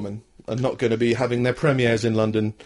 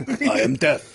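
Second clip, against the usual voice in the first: put-on Middle Eastern accent; slower than usual. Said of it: "We're doing a Saddam impression".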